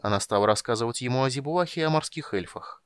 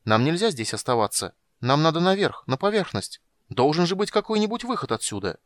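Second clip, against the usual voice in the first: higher, louder urgent plea; agitated pleading; 7 semitones higher, 4 dB louder than usual. A narrator's reading. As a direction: urge him out in alarm. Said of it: "всполошилась Тика".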